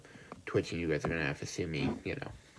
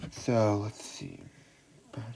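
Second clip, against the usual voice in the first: whispering. Real, not acted. Muttering while checking playback.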